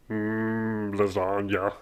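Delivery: low, quiet relish; long, soft mmm over food; savouring. Acted. Hungry worker sitting down to lasagna at last, savouring.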